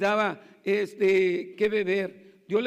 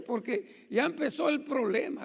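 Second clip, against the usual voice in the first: laughing; 3 semitones higher than usual. Real, not acted. Laughing while retelling mishap.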